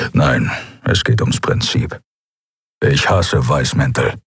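low, slow grumbler; slow, deep, surly character voice; grumpy character. A narrator's reading. Grumpy Keru in dialogue.

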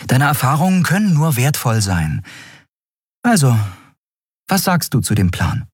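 viel höher, teils schnell; drängende Endriel. Acted. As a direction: eindringlich zum Reden bewegen. (hoch und eindringlich)

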